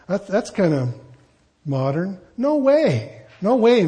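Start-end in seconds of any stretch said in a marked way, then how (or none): 2.4-3.8 playful emphatic no. Pretend. Modern paraphrase, playful.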